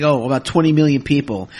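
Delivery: a touch of retold sarcasm; sarcastic. Podcaster answering a fan's question, mild sarcasm. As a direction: toss it off dryly. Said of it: "I got sarcastic".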